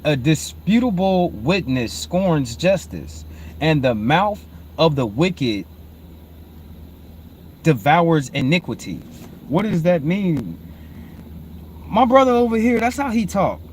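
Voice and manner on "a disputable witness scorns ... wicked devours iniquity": slow, measured verse reading with long pauses; scripture reading. Real, not acted. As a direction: read the verse out deliberately, phrase by phrase. Reads a verse aloud.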